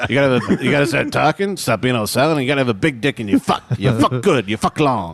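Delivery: lightly voiced blunt old advisor; Alan Arkin. Grandfather coaching silent kid about manhood, light impression. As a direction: push the kid with punchy repeated advice. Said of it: "deep voice like this".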